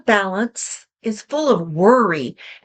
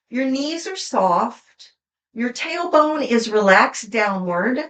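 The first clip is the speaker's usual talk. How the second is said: gentle guided instruction. Acted. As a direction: lead them gently into posture. Guides a posture exercise.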